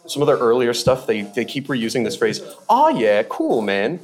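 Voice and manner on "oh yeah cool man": put-on a light Australian accent on the catchphrase; breezy Australian drawl, lightly done. Quoting the comedians' reused phrase in a light Australian accent. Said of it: "in an Australian accent".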